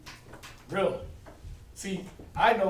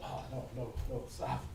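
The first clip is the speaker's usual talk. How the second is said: mock pleading; 6 semitones lower, 9 dB quieter than usual. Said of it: "I'm like".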